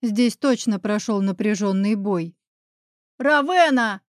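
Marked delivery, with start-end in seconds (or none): 3.2-4.0 shouting. A narrator's reading. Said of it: "крикнула во всю мощь".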